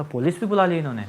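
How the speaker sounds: a touch of retold disbelief; mild surprise. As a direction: repeat it calmer, half amused. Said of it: "मेरे को बड़ा आश्चर्य हुआ". (हल्की सी दोहराई हुई हैरानी)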